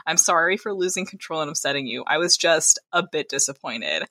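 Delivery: quiet, contained apology; controlled, reserved courtesy. Acted. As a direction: apologise with feeling held back under courtesy. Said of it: "his voice was back under control, all reserved courtesy".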